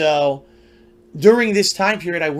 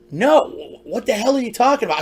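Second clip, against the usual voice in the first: raised-pitch, incredulous comeback; bewildered retort; 5 semitones higher than usual. Retold or imitated. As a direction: re-enact being completely thrown. Bewildered retort in retold exchange.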